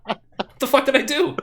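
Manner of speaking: high, loud laughing hurt voice; hammed-up guilt-trip, laughing; mock wounded mom. Host hamming up a wounded mom to Chris, high and laughing.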